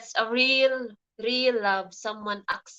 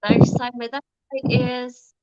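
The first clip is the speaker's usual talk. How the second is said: loud announcing; 10 dB louder than usual. Real, not acted. Loudly announcing the question.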